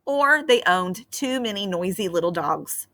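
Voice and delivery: put-on gentle read-aloud for children; storybook narration. A narrator's reading. Teacher reading a fairy tale to her class, gentle storytelling. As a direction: tell the tale like a bedtime story.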